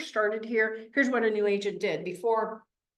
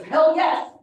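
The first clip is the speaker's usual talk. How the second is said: eager yes; 7 semitones higher, 7 dB louder than usual. Retold or imitated. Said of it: "He goes".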